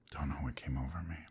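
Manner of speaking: breathy confessional whisper. Acted. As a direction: whisper it like a secret you can't explain. Confessing secret in hushed tones.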